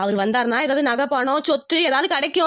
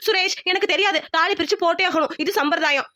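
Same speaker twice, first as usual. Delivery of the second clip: raised, higher-pitched demand meant to be overheard; loud on purpose; 4 semitones higher than usual. Acted. Wife raises her voice so mother-in-law overhears, pitched-up demand. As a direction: call it out so the mother-in-law hears. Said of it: "அவ காதுல விழுற மாதிரி கத்துறேன்".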